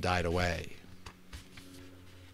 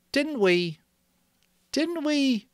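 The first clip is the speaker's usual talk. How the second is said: put-on much higher, anxious boy's voice; doubting Stanley; 5 dB louder, slower than usual. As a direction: press the question nervously.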